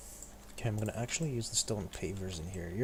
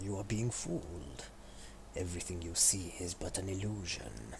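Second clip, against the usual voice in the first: villain voice; 3 semitones lower, 5 dB quieter than usual. Acted. Gloating at trapped player.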